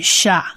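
"sha" repeated with a clear open a; teacher sounding out "sha"; syllable drill. Shown as a demonstration. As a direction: drill "sha" three times for students. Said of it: "念起来就是".

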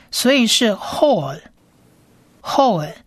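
whole, whole said slowly with L ending; sounding out bechor syllable. Shown as a demonstration. Teacher models the syllable slowly. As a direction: stretch whole, whole. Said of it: "念L的音".

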